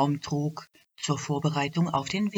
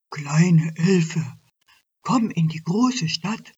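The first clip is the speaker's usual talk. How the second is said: lightly voiced old elk. Old elk lures the little elf to the city, coaxing. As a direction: lure her like a smooth-talking elk.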